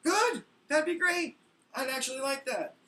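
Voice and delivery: high, loud mock cheer; overjoyed sarcasm at the transfer; sarcastic delight. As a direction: fake enthusiasm, dripping sarcasm. Sarcastic joy at being escalated.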